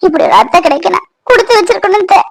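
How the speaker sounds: weep out the gratitude; crying. Acted. Daughter-in-law thanks her mother-in-law, crying. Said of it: "அழாத காமாட்சி".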